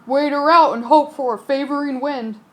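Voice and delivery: a lightly gruff sea-captain voice; steady old sailor giving orders. Acted. Captain answering the worried passenger.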